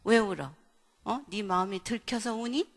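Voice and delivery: needling questions, loud at the start; acted accusing. Mother challenges child who started crying, accusing. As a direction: play a parent pressing a crying child.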